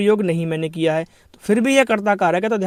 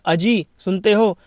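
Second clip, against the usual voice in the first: calling out; slower than usual. Shown as a demonstration. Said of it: "जैसे हम कहते हैं".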